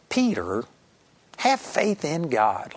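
slow, pointed rebuke; slow it down to chide him; gently rebuking. Retold or imitated. Jesus chiding Peter for being shocked, slow gentle rebuke. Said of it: "I believe it was more like".

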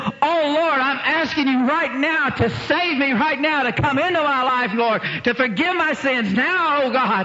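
high, pleading prayer cry; fervent prayer. Retold or imitated. New believer begging God to save her, high and fervent. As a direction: pour it out to the Lord. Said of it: "she said".

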